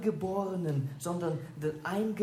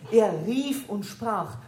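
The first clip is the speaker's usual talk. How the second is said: proclaiming; 5 dB louder, slower than usual. Shown as a demonstration. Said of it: "Nein, er hat nicht geflüstert".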